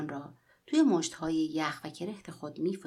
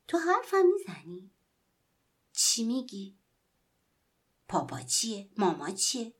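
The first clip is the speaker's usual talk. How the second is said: put-on delighted boy; 3 semitones higher than usual. Boy delightedly questions the doll.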